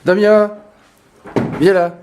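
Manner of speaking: talking to a pet. Real, not acted. Calling the dog.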